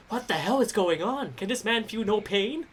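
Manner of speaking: softly voiced, incredulous onlooker; crowd's disbelief. Game master voicing the crowd watching the punches, hushed disbelief. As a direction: wonder aloud in a soft voice. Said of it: "The crowd just like".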